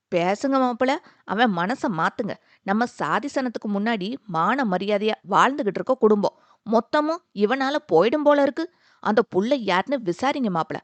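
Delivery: a mild, understated angry outburst; fierce shouting. Acted. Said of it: "ஆக்ரோஷமாக கத்தினார்". (லேசான கோபக் கத்தல்)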